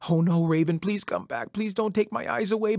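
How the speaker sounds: loud cry of dismay, then high begging; high, urgent plea; alarmed pleading. Acted. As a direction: call desperately after a thief. Coyote begs Raven to return.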